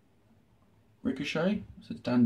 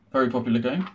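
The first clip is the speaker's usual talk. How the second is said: mildly sarcastic, understated; deadpan praise you don't mean; faster than usual. Real, not acted. Vlogger showing an obscure game to viewers, dry sarcasm. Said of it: "I'm being sarcastic".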